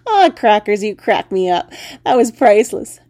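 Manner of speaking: loud, laughing through the words; laughing frog. Acted. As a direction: cackle at her expense, loudly.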